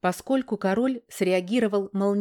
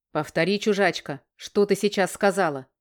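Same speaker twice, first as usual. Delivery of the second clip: mild agitated snap. Acted. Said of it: "Взволнованно прикрикнул".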